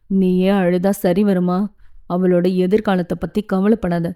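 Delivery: lightly voiced father, firm and steady; a hint of a stern father issuing orders. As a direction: calmly lay down the rules to the family.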